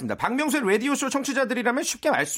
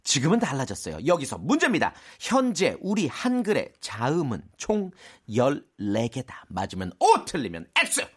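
quiz master reading; 7 semitones lower, 4 dB quieter than usual. Acted. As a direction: pose the true-or-false question deliberately. Quiz master reads the question.

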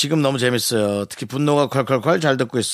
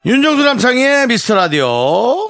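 shouting; 8 semitones higher, 4 dB louder than usual. Real, not acted. Shouting the show title.

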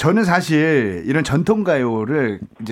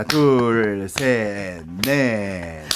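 counting the beat; 9 semitones lower, 4 dB quieter, much slower than usual. Shown as a demonstration. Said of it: "정박자를 잘 타면 됩니다".

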